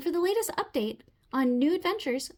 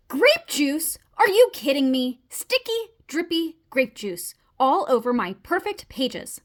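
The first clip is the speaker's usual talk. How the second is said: appalled disbelief; 6 dB louder, slower than usual. Acted. Frog finds grape juice spill.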